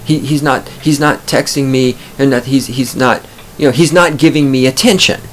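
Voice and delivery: imitating complaining female friend. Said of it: "she came to me and she's like".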